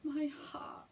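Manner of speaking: breathy high whisper, clutching the heart; swooning whisper. Retold or imitated. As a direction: whisper it as if overwhelmed. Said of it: "and I was like".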